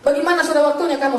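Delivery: half-shouted demand; retold shout. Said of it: "saudaraku teriak".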